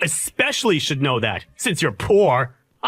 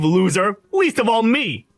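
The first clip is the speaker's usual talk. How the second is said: angry taunting; 8 semitones higher than usual. Acted. Groom taunting rival at wedding.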